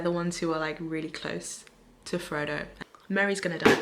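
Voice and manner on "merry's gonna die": emphatic prediction. Real, not acted. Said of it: "I'm calling it now".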